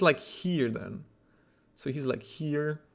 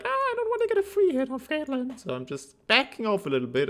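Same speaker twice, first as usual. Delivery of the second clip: mock timid player; 12 semitones higher than usual. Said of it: "you were like".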